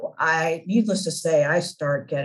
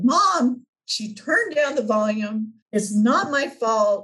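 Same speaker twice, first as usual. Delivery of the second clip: put-on crying child; 4 semitones higher than usual. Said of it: "I'm crying and I'm saying".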